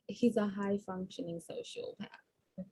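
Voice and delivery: hushed, slow Sherlock line; Sherlock quote. Retold or imitated. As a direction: breathe it like Sherlock. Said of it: "to borrow a line from Sherlock".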